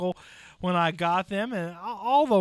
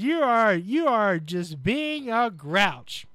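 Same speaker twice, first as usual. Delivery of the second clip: louder mock scolding, slow on the second part; host imitates his wife scolding him, mock loud; imitating wife; 4 dB louder, slower than usual. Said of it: "she says".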